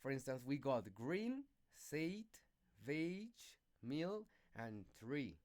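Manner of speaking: green, sate, veg, meal, tree with stretched vowels; teacher demonstrating long sounds; longer vowels. Shown as a demonstration. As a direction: draw the vowels out slowly. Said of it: "the longer sound".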